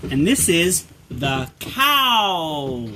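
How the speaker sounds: slow recap with a long-held last word; drawn-out naming; slow teaching. Shown as a demonstration. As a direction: stretch it out for a small child. Teaching animal names slowly to toddler.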